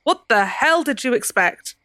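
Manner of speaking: slow soft Cockney reproach. Acted. Ceridwen reproaching the thief, slow soft Cockney. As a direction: lay it out slowly in a light Cockney. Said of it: "A soft Cockney accent".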